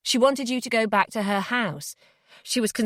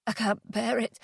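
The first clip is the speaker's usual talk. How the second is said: soft, anguished murmur to oneself; quiet, barely holding on; subdued despair; grieving despair; 5 dB quieter than usual. Acted. Grieving alone in bed.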